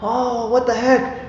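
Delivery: high, slow mock outburst; a hammed-up annoyed dad; mock exasperation. Dad after a cut finger, mock exasperated. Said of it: "And I'm like".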